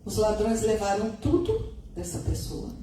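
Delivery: ordinary delivery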